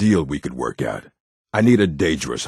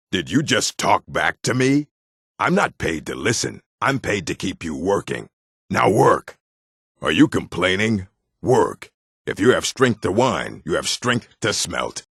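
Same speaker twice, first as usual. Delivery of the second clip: angry overseer; 4 semitones higher than usual. Acted. Overseer barking at complaining workers.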